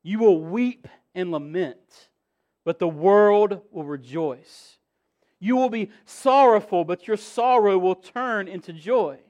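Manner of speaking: 1 quoting Jesus, preaching. Acted. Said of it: "Truly, truly, I say to you".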